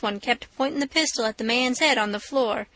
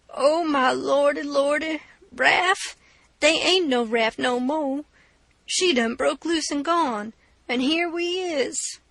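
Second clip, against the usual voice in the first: higher, slow half-crying dismay; wailing Jim; 3 semitones higher, slower than usual. Acted. Jim lamenting the lost raft, higher and slow with a cry. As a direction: cry out in despair, voice rising.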